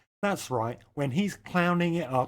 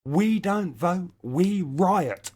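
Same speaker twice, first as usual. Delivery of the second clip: mock rally chant, a touch louder; quoted slogan; 4 semitones higher, 4 dB louder, much slower than usual. Reading a protest banner, a mild mock chant. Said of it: "and I quote".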